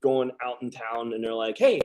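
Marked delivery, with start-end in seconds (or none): 1.6-1.8 higher, eager call to a friend; playful higher shout-out from shipmates; mock buddies calling out. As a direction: call across the passageway to drag him out. Buddies calling him to town.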